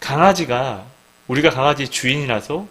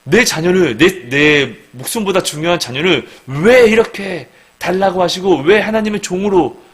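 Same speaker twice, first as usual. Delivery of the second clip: higher, louder, pleading outcry; anguished complaint; 6 semitones higher, 6 dB louder than usual. Acted. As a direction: protest like a desperate parent. Parent pleading against God.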